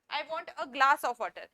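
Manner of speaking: each word spaced out slowly for students; slow model sentence. Shown as a demonstration. Teacher reading an example sentence for learners, slowly. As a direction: dictate it slowly. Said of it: "ये sentence सही है".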